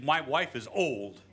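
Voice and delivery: put-on slow, blunt "My wife is old" through a laugh; blunt mock version. Shown as a demonstration. Preacher mocking the blunt way Zechariah didn't put it, slow with a laugh. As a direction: say it flat out with a chuckle. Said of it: "Notice he didn't tell, say".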